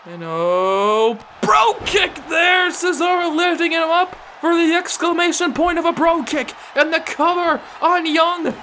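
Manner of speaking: fast, rising wrestling commentary; live play-by-play. Acted. Commentator calling the tag match for viewers, live play-by-play. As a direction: call every move as it happens.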